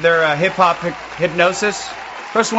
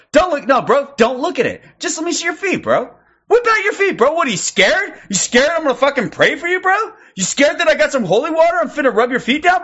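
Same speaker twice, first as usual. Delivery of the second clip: hammed-up bro fight talk; 5 semitones higher than usual. Streamer mocking the pastor's dangerous Christianity, as a hammed-up bro taunt. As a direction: ham up a hyped bro picking a fight about prayer.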